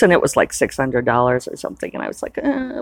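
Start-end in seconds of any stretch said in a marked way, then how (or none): 2.4-2.8 mock whimper.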